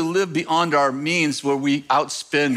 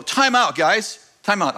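higher, sharp call to break it up; calling time out; 4 semitones higher, slower than usual. Retold or imitated. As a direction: boss stopping a fight at the counter, called out high. Calling out to arguing staff.

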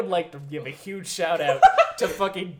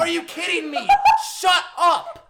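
high, loud annoyed shout; exasperated yell; 11 semitones higher, 5 dB louder than usual. Real, not acted. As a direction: snap at him to shut up. Ranting at a movie character.

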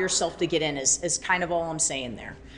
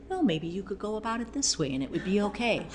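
imitating a calm, soft, quick husband; 3 semitones higher, 5 dB quieter, faster than usual. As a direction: soothe her like a patient husband. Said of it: "He becomes this calm person".

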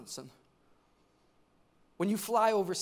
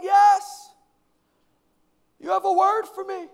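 high, loud mock-fangirl voice; insistent fan; 10 semitones higher, 10 dB louder than usual. Young lady insists to pastor, high excited mock voice. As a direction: imitate an overeager young woman. Acting out an eager admirer.

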